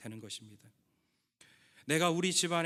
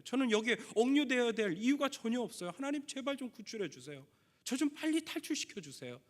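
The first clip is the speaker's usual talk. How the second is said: rising, pleading plea that climbs higher as it goes; retold prisoner's tearful plea to God; desperate pleading prayer; 5 semitones higher than usual. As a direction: beg God for rescue, voice lifting with each line. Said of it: "이분의 매일 반복되는 기도는".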